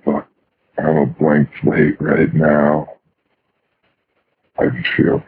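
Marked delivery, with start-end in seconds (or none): 0.8-2.9 said louder and slower. Shown as a demonstration. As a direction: speak it up, deliberate. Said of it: "Say it louder".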